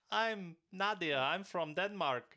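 slow, high, loud pageant introduction; stretched-out mock Miss World introduction; pageant contestant. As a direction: imitate a contestant announcing herself grandly. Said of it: "they're all introducing themselves?".

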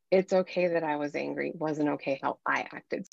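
low, softened parental apology; gentle apology. Acted. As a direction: own up to a child, voice dropped. Parent voicing apology to a child.

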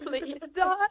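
distressed plea amid sobbing; tearful pleading. Acted. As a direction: beg your companion through tears. Captive begs crying companion to stop.

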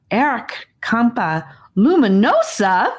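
put-on high, slow, eager boy; eager child voice. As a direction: say the name carefully and proudly. Child proudly names worms.

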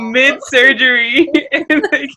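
high voice, breaking up mid-sentence; helpless laughter. Real, not acted. Host telling how he stole the patient, cracking up. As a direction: squeal the words out through giggles.

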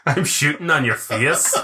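put-on slow, laughing Welsh accent; giggly Welsh impression; mock Welsh. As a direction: draw it out in a put-on Welsh lilt. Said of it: "Talk to me in Welsh".

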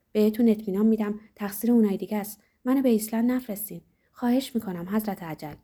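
mildly tearful, fast begging plea; a touch of sobbing as he begs for mercy; tearful pleading. Acted. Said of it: "اشکش سرازیر شد و با حقیق گفت".

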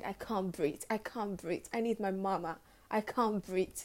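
a gentle hint of his tearful plea; crying plea. Retelling George Floyd's last words, hushed and pleading. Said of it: "George was crying".

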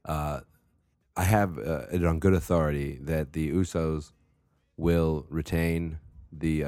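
loud, halting address to a senator; hammed-up formal testimony; pompous hearing speaker. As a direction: hold the floor at a mock hearing. Plays witness addressing a senator.

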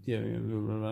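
soft bored blah blah; dismissive mumble. Retold or imitated. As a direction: mutter it off to end the talk. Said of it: "And I'm just like".

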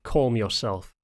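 measured, controlled command; even-toned. A narrator's reading. Johannes telling a challenging Luther to settle, evenly. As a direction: tell him evenly to settle. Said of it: "he spoke evenly".

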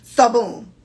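punchy Floridian story opener; lightly put-on Florida accent. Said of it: "Floridians start stories".

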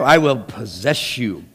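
slow, low and menacing; menacing possessive lover. Acted. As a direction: claim them like property. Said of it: "you know, here we go".

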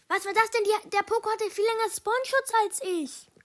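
high, loud indignant complaint; loud, high-pitched gamer outrage; outraged yell. Real, not acted. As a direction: yell in disbelief at the game. Outraged gamer yelling at unfair spawn.

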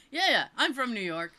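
a retold answer said through a laugh; laughing reply. Telling the woman she's from New York, laughing. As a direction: let the laugh spill into the words.

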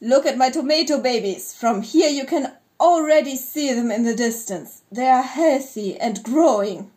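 mildly excited proud announcement; lightly voiced proud alien father; exclaiming. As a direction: show them off with understated pride. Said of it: "when Jim exclaimed".

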